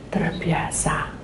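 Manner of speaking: breathy whispered word. Real, not acted. Preacher whispers the point to the congregation. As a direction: drop to a whisper for effect.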